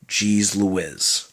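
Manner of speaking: "Louise" said as "Lou-iz", short i; Baltimore pronunciation. Shown as a demonstration. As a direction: clip the vowel in Louise to "Lou-IZ". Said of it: "in certain parts of Baltimore, you'll hear".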